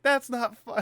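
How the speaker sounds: high, shrill-sounding mock of an angry mom; imitating mom yelling. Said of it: "she's just yelling".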